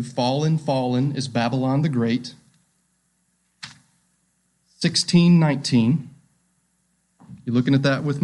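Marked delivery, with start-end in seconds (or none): 0.0-2.3 quieter, lower reflective reading; framing the passage for the church, low and quiet; soft, low quote. Shown as a demonstration. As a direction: say it softly, almost to yourself. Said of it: "you could frame it like this".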